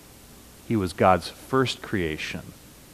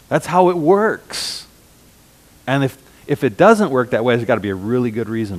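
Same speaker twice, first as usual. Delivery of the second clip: loud, higher, indignant protest; mock outraged heir; 5 semitones higher, 5 dB louder than usual. Preacher mimicking siblings who are upset by an unequal will, loud and indignant. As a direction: play the offended sibling who got less, hammed up. Mocking offended heirs over will.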